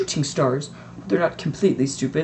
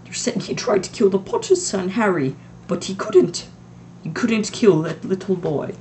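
trembling voice; 6 semitones higher, 3 dB louder than usual. A narrator's reading. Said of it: "McGonagall's voice trembled".

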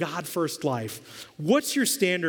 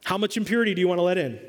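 rapid question; much faster than usual. Shown as a demonstration. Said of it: "the big question to ask ourselves".

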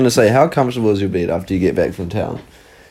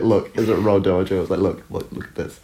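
mock fake crying. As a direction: put on a hammed-up fake sob while pleading. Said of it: "I started trying to fake cry".

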